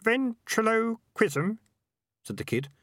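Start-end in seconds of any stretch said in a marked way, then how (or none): 0.0-1.6 slow, high puzzled repeat; puzzled question. A narrator's reading. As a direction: sound out the odd word, baffled. Kid puzzled.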